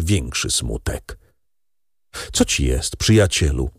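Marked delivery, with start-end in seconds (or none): 2.3-3.7 concerned. Acted. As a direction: ask gently, worried for him. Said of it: "zatroskał się Beauchamp".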